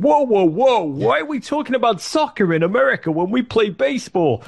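high, hammed-up TV anchor cutting him off; imitating Tom Brokaw. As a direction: interrupt like a blustering old newsman. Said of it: "He said".

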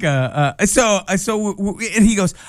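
ordinary talk, nothing marked

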